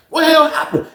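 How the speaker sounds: high call through the doors; screaming out. Retold or imitated. Inmates calling out from locked cells, high yelling. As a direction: yell the question to the whole block. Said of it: "Everybody screaming out".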